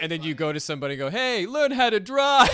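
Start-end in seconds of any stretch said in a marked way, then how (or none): 1.1-2.5 much higher, louder, slow yell; a hammed-up angry New York driver; mock road rage. The speaker yelling at another driver, mock road rage.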